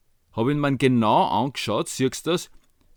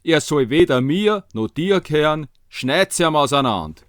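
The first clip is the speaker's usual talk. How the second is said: loud, spiteful Viennese demand; harsh woman; 3 semitones higher, 5 dB louder than usual. Acted. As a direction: spit it out loudly in Viennese. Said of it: "die andere hat gesagt".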